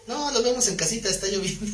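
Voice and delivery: playful high-voiced refusal; reluctant brother. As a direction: lightly imitate someone begging off. Acted lazy brother declines study.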